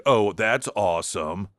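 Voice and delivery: mock sarcastic enthusiasm; Chris Murphy being sarcastic. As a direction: imitate a lightly sarcastic cheer. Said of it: "I was just being sarcastic".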